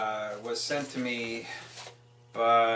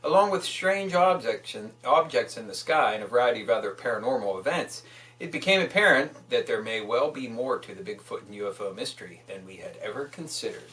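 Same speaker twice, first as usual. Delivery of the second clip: book excerpt reading; 4 dB louder than usual. Acted. Reads a book excerpt aloud.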